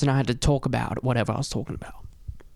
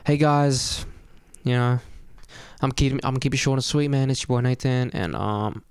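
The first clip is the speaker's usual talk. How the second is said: relaxed intro. Retold or imitated. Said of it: "I was kinda more relaxed".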